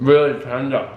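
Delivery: talking through a mouthful of food; words round a bite of food; mouth full. Real, not acted. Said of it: "Shouldn't talk with my mouth full".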